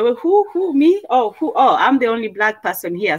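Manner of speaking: high, feigned disbelief; mock surprise. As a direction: play innocent, as if shocked. Acting surprise at being singled out.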